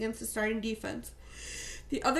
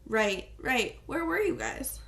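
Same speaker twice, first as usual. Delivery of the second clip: playing dumb; slower than usual. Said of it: "I decided to play dumb".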